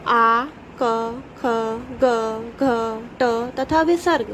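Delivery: each letter sounded apart, carefully; letters said clearly. Shown as a demonstration. Teacher to children, reciting throat letters one by one, clear and careful. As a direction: spell out every sound for the class to repeat. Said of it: "मेरे साथ इसका उच्चारण करते जाइए".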